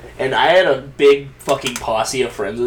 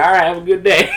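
put-on Old West accent; 6 semitones higher, 6 dB louder than usual.

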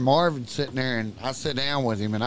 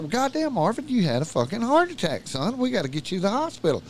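higher-pitched retold alarm; alarmed urging; 6 semitones higher than usual. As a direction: urge a stubborn friend to get help, pitched up. Acted urging of sick friend.

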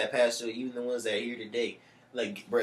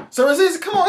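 high, loud hammed-up complaint; impatient old man; 14 dB louder than usual. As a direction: bang on the door in a high cranky voice. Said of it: "He's like".

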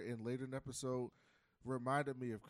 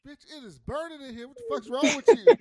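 high mock yell building louder; outraged complaint; 13 semitones higher, 17 dB louder than usual. Old passenger griping to driver about the heat, outraged. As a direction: explode into high-pitched, hammed-up outrage.

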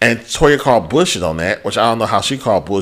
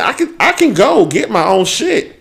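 laughing mock quote; 9 semitones higher than usual. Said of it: "It was like".

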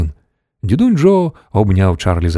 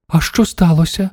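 put-on higher-pitched old woman's question; exclaiming granny; 6 semitones higher than usual. A narrator's reading. Grandmother floating under the ceiling, high exclaimed question. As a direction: ask it high, as a startled grandmother. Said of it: "вигукнула бабуся Джозефіна".

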